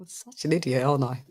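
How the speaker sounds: breathy self-mocking whisper under the breath; whispered aside. Real, not acted. Host whispering to chat about himself. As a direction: whisper it as a joke on yourself.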